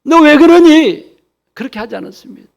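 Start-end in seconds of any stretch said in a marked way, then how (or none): 0.0-1.2 higher, and louder on the repeat, a parent's mock scold; hammed-up reproach, drawn out the second time. Pastor imitating a scolding God he says never comes, mock scolding. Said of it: "야단치시지 않습니다".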